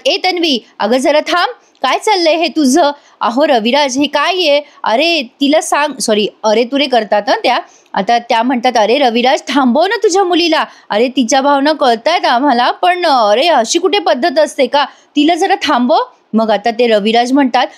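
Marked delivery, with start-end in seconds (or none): 0.1-6.0 mock scolding yell. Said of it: "डॉक्टरच ओरडतात तिच्यावर आणि म्हणतात". 8.8-16.0 higher-pitched, remonstrating appeal; exasperated rebuke. Retold or imitated. Doctor's acted rebuke to the father.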